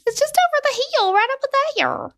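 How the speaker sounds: exaggerated Midwest Wisconsin twang; Wisconsin accent. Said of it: "Quit doing the Wisconsin accent".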